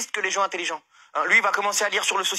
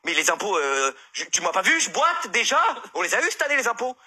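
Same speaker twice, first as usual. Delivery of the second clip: retold phone call. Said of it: "il appelle, le comptable".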